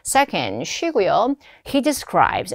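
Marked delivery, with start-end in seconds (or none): 1.7-2.5 describes with its final s clearly sounded. Shown as a demonstration. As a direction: finish describes on an audible s. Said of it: "S 발음 꼭 넣어주셔야 됩니다". (describes 끝의 s를 살려서)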